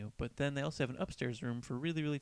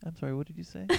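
higher-pitched imitation Norwegian accent; 5 semitones higher, faster than usual. Singer asking a fan to repeat himself, mock Norwegian accent. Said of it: "Norwegian accent".

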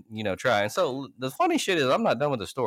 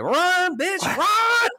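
high joking yell of run after her; mock shout; 6 dB louder, much slower than usual. Teasing the girl as she walks off, high mock yell.

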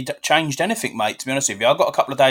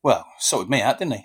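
laughing; 5 semitones lower, 3 dB quieter than usual. Real, not acted. Fond joke about late dad.

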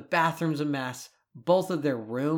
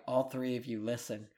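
calm; 6 dB quieter than usual. Retold or imitated. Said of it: "I calmly walked over".

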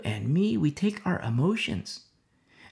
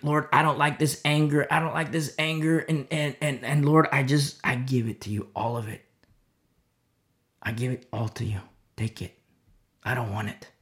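surrendering prayer; 2 semitones lower than usual. Shown as a demonstration. Preacher modelling a prayer to the Lord, softening.

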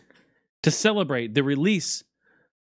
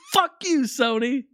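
gleeful taunt; 10 semitones higher than usual. Real, not acted. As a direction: crow it at the rival, pitched way up. Celebrating, taunting Sony.

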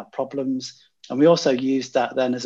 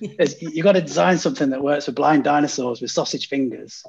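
put-on Scottish accent; 3 semitones higher, 4 dB louder than usual. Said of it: "I can't do a Scottish accent, by the way, I'll try".

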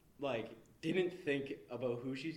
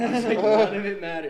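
much louder, laughing it out; 9 semitones higher, 18 dB louder than usual. Real, not acted. Student laughing about high school realization. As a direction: repeat it laughing in disbelief.

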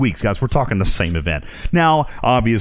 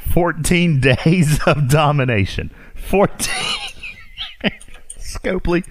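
reading the news aloud while cracking up; barely holding in real laughter; laughing through it; 7 semitones higher, slower than usual. Real, not acted. Host breaks up reading the game announcement, laughing. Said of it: "I can't read this with a straight face".

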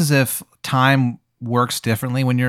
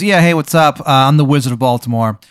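lightly put-on bad Maryland accent, pitched up; louder, raised voice with a hint of cheesy Maryland accent; Wizard of Baltimore, Maryland accent; 4 dB louder than usual. Wizard introduces himself to the player, bad Maryland accent. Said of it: "He's got a really shitty Maryland accent".

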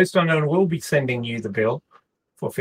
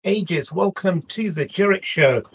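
ringmaster; 4 semitones higher than usual. Acted. Circus-style show opening.

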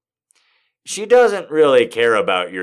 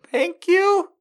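much higher mock flattered voice. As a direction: squeak out a flattered thanks. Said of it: "The way I tell the story is like".

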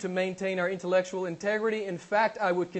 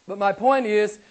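louder, slow, punching each phrase; emphatic preaching; 5 semitones higher, 8 dB louder, slower than usual. Real, not acted. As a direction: preach it hard to the congregation, slowly. Preacher building to emphatic climax.

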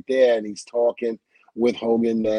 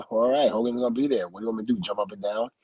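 offhand, tailing off softer; playing it cool; 4 dB quieter, much faster than usual. Wrestler to his partner about the idol, feigning indifference. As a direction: act like it's nothing special. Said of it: "I'm playing it off like it's nothing".

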